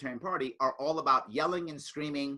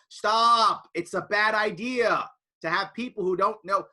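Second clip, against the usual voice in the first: loud, sharp stop then slower warning; firm plea; 5 semitones higher, 6 dB louder, slower than usual. Retold or imitated. Speaker warning his party against vanity runs, firm loud plea. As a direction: put your foot down with the party. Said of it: "And I keep saying".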